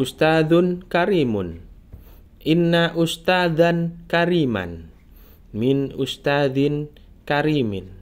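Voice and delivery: slow model reading, only brief breaks as in "Inna ustadan kariman"; short pauses. Shown as a demonstration. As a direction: read "Ustadun karimun" as connected phrases, drawn-out vowels. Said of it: "jedanya jangan lama-lama ya". (baca "Ustadun karimun" perlahan dengan jeda singkat)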